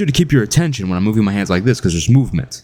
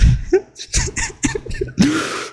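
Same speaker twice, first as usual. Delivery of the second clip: long high-pitched giggle; high laugh. Real, not acted. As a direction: crack up helplessly. Cracking up at the story.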